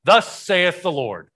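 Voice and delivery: put-on Hebrew intoned in a Jamaican accent, high and loud; booming Jamaican-accented declaration. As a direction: proclaim it like a Jamaican professor. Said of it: "I learned how to say this in Hebrew with a Jamaican accent".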